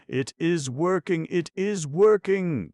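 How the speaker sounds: high, loud, breaking with strain; excited cry. A narrator's reading. Frenchman to the séance circle, a high straining cry. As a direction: cry out in nervous triumph. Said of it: "cried the Frenchman".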